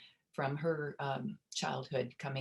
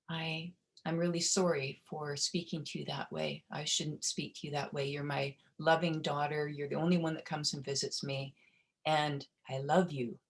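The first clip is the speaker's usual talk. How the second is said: emotional retold apology. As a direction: gently voice a mother's apology, emotion close by. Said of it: "Makes me emotion just talking about it".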